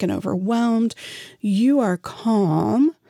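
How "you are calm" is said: slow calm demo. Shown as a demonstration. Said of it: "You are even speaking in a slower, calm tone".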